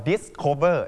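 "discover" with a puffed k after the s; wrong pronunciation. Shown as a demonstration. Teacher showing students what to avoid, "discover" with aspirated k. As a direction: say "discover" as dis-KHOVER, aspirated k. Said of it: "เราจะไม่ออกเสียงว่า discover".

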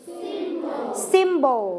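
"Symbol" stressed on SYM, for repeating; stress on first syllable. Shown as a demonstration. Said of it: "เน้นหนักไปที่พยางค์ที่หนึ่ง". (เน้นหนักพยางค์แรกของคำว่า "Symbol")

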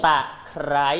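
ตะไคร้ with the kr cluster in ไคร้ fully sounded; teacher models ตะไคร้, pressing the r of ไคร้; ไคร้ said as kr-ai, not kai; clear consonant cluster. Shown as a demonstration. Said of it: "ควบกล้ำตรงคำว่าไคร้ด้วย".

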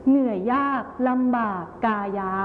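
measured verse phrasing, เหนื่อยยาก / ลำบาก / กายา; grouped two-two-two. Shown as a demonstration. Teacher showing pupils verse rhythm, เหนื่อยยากลำบากกายา split two-two-two. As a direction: read เหนื่อยยากลำบากกายา in pairs, pausing after เหนื่อยยาก and ลำบาก. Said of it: "แบบสองสองสองนะคะ".

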